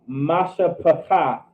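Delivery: "masha pakath" drawn out slowly; slow, measured teaching repeat of "masha pakath"; slow pronunciation demo. Shown as a demonstration. Teacher repeats Hebrew word slowly.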